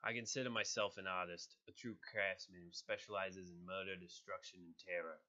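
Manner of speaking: put-on light New York accent, menacing; a villain bragging in a New York accent. Crossbones with a mild New York accent. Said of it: "a New York accent".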